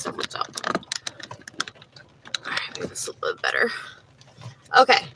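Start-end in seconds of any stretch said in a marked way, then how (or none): 0.0-3.7 whispered aside, quick. Real, not acted. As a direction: whisper it to yourself while fixing the cards. Muttering while reshuffling cards.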